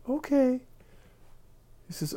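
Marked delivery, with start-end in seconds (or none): 0.1-0.6 put-on high, shy old lady agreeing; coy old lady. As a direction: play the bashful little old lady. Old lady voiced in joke.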